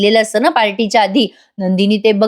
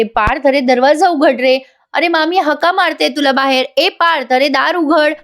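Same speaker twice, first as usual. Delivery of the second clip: higher, urgent call to the cousin behind a locked door; calling through the door; 5 semitones higher than usual. Acted. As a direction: knock and call out to him, pitched up. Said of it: "रम्या लगे दार वाजवायला लागते". (बंद दारामागच्या पार्थला रम्या उंच आवाजात हाक मारते)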